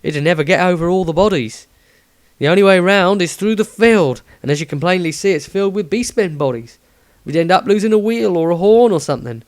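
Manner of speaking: a humble Cockney driver; Cockney coachman. Acted. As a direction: Samuel the coachman, in light Cockney. Samuel continues.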